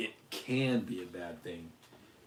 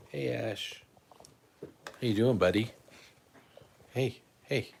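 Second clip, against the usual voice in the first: higher, louder sing-song hello to the dog; light up as he greets his buddy; cheery dog-greeting voice; 4 semitones higher, 7 dB louder than usual. Real, not acted.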